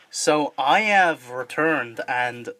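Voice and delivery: slow, deliberate villain reveal; unmasked villain. Acted. Character takes off his mask to reveal himself, as a villain. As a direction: draw it out as a lightly acted menace. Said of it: "he takes off his mask".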